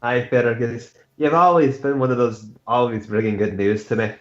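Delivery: easy, friendly Scottish brogue; Scottish accent. Acted. Knight thanking Fergus for good news, Scottish accent. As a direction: praise your friend in a Scottish lilt. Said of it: "Can't handle your fucking accents".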